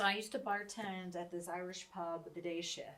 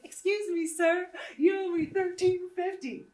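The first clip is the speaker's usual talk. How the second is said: loud demand; 11 semitones higher, 11 dB louder than usual. Retold or imitated. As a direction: shout it high and loud. Repeats demand at Madison Square Garden.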